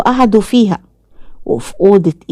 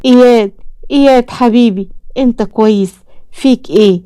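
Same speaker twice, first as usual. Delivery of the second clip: shocked and terrified; 5 semitones higher than usual. A narrator's reading. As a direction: call your son's name in horror. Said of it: "عامر بصدمة ورعب".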